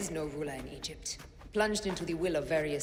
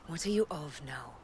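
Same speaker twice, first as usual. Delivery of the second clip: whisper. Acted. Aya whispers question to Bayek.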